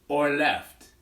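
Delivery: a hint of the boasting wolf; wolf puppet voice. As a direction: finish the wolf's line lightly. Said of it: "I'll show you with the wolf".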